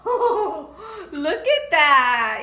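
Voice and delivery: laughing. Real, not acted. Laughing at haul item.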